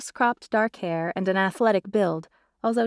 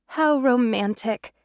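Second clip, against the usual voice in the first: dreamy sigh; 5 semitones higher, slower than usual. A narrator's reading. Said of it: "Lindsay sighed".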